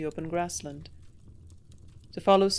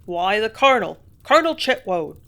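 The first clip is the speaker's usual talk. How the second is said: much louder, eager gossip's rush; excitedly; 10 dB louder than usual. A narrator's reading. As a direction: blurt out the news excitedly. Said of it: "the man answered excitedly".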